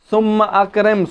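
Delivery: ثُمَّ أَكْرِمْ with the hamza of أَكْرِمْ sounded, not thummakrim; ثُمَّ أَكْرِمْ read as two words, hamza kept; hamza pronounced. Shown as a demonstration. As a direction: say ثُمَّ then a clear glottal stop before أَكْرِمْ. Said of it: "ثُمَّ أَكْرِمْ یا فَأَكْرِمْ نہیں پڑھ رہے".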